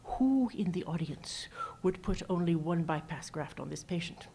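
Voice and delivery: light imitation of a Scottish moderator, near a whisper; hint of a Scottish accent, breathy and hushed. Moderator quizzing the audience, in a lightly imitated Scottish accent. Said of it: "in his lovely Scottish accent".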